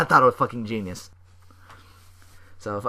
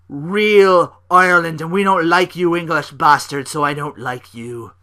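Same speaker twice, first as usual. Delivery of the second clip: mock Sheamus taunt; 5 semitones higher, 8 dB louder than usual. Sheamus taunting Neville retold.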